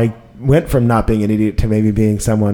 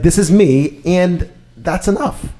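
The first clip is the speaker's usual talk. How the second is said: slow mantra; 7 semitones higher, slower than usual. Retold or imitated. Recalling his shower realisation.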